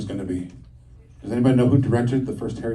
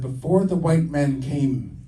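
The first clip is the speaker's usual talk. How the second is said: 1 grandmother quoting; slower than usual. Retold or imitated. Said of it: "She said".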